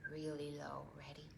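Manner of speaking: hushed whisper. Real, not acted. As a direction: drop to a whisper. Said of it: "whispered aside".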